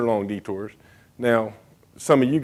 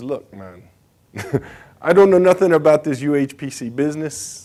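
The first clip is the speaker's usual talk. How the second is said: rough, badly done put-on Jamaican accent; 3 semitones higher than usual. Retelling what a senior designer said in his office, in a bad Jamaican accent. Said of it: "my Jamaican accent's bad".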